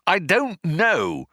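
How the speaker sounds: drawn-out high cry back; yelled reply. A narrator's reading. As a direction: keep yelling, stretching each word. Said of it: "yelled Ford".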